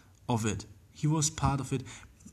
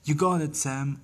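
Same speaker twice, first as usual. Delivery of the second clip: a loud, pumped-up call across the pitch; encouraging shout; 3 dB louder than usual. Pretend. Goalkeeper cheering on a teammate, mild encouraging shout. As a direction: shout belief into your keeper, not too hard. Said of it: "you could just scream".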